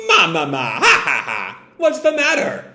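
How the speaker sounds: lightly voiced cackling laugh rising into a high question; Big Mom cackle. Big Mom's signature laugh.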